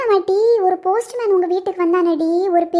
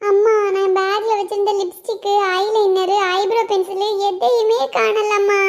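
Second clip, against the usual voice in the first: whiny daughter; 4 semitones higher than usual. Acted. Daughter whining about missing makeup.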